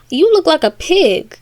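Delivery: high, swooping exclamation; Alice's astonishment. Retold or imitated. Alice looks at the baby, high mock astonishment.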